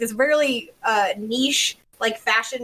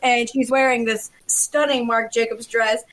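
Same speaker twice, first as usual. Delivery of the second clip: admiring Tim Gunn. Retold or imitated. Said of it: "he was like".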